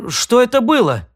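high, startled question; startled gasp. Acted. Sid shaken in his cocoon, gasping high and startled. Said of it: "ахнул он".

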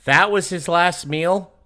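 high loud shocked question; surprised. Real, not acted. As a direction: ask in shock. Shocked at last meal.

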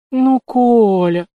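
slow, high drawn-out plea; nervous plea. A narrator's reading. Nurse clutching Kolya's sleeve, nervous drawn-out plea. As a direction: stretch it out anxiously. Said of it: "нервно вцепилась в рукав".

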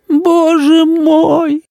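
drawn-out high moan of despair; mother moaning over the ruined dress. A narrator's reading. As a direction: groan it out slowly, high and despairing. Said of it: "простонала мама".

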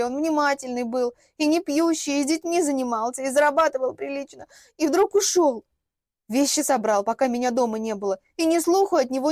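tearful fib, warming to the story; inspired lying. Acted. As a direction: spin the lie with gusto. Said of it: "вдохновенно врала я".

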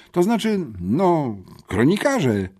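put-on boy in wheelchair caught off guard; flustered boy. A narrator's reading. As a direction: fumble for the word, embarrassed. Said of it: "zmieszał się nieco chłopak".

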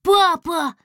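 high, loud joyful shout of папа; little one overjoyed, calling out; delighted cry. A narrator's reading. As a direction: burst out with delight at seeing dad. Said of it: "Гусля пришёл в восторг".

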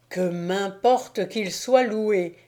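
slow, triumphant call; gleeful cry. Acted. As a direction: shout it with delight. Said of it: "cria le démon". (cri joyeux du démon)

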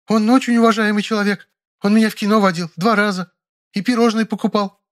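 high, frightened maid. Acted. Maid begs him not to call the police, frightened and high. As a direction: beg in a high scared voice.

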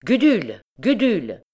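high, loud call of the name; calling out loudly. A narrator's reading. Priest calling the recluse to seize the girl, loud high call. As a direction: call the name across the square. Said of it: "il s'écria d'une voix haute".

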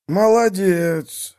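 slow, high exclaimed praise; wolf exclaims his approval, drawn out; exclaiming. A narrator's reading. Wolf praises the donkey, exclaiming slowly. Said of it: "воскликнул волк".

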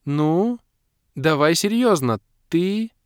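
high, loud pleading with a pout; miffed girl demanding seriousness; hurt, miffed. A narrator's reading. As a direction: draw it out, offended. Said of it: "обиженно протянула".

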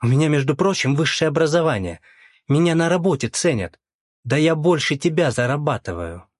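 выше и громче, с напором; отстаивает себя, повышая голос; возмущённо. Acted. Жена возмущённо спорит с бывшим. (возмущённая жена спорит с бывшим мужем)

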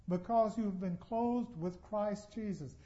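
ordinary delivery

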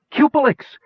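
high-pitched call across a great distance; hailing through cupped hands. A narrator's reading. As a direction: call out urgently to someone far off. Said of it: "Kitiara called through cupped hands".

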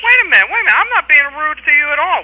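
protesting. Real, not acted. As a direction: push back against the accusation, pitch jumping up. Caller accuses him, he protests.

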